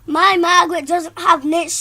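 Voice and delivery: high, loud indignant shriek; shrieking mother. Acted. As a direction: screech it in outrage. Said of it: "shrieked Margaret's mother".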